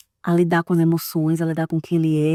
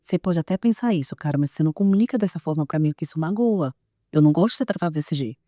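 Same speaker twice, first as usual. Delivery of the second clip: calm firm talk to son; 4 semitones lower than usual. Retold or imitated. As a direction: set a gentle limit. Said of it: "eu vou falar".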